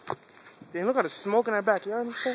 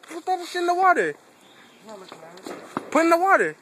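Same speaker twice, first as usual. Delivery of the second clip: calling out; 7 semitones higher, 4 dB louder than usual. Real, not acted. Calling out to a friend.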